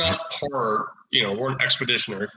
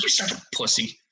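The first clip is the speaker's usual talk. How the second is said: whispered insult. Retold or imitated. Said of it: "I'm like".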